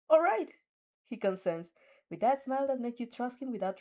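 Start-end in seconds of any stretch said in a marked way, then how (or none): 0.1-0.5 high, loud eager all right; a loud, happy all right; eager agreement. Acted. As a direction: agree brightly and loudly. Izuku promising eagerly.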